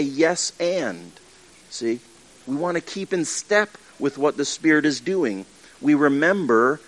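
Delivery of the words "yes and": accepting yes and. Retold or imitated. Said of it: "We wanna say".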